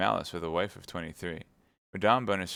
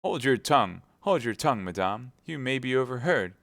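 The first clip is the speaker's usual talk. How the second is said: alarmed; 5 semitones higher, 4 dB louder than usual. Acted. Husband fears being overheard.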